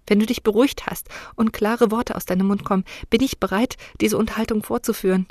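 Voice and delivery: understated indignant retort; angry. Acted. Daughter brushing off her weeping mother, mildly angry. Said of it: "sagte ich erbost".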